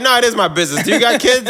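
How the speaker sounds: insistent retold comeback, pitch climbing; heated retort. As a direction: argue back, getting worked up. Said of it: "I started talking like this to her".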